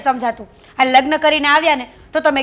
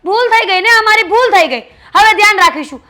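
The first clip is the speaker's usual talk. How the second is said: higher, louder mocking apology; sarcastic retort; 4 semitones higher, 3 dB louder than usual. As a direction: fling back a fake apology. Sister-in-law quarrel, sarcastic retort. (ભાભીને કટાક્ષભર્યા ઊંચા અવાજે ખોટી માફી)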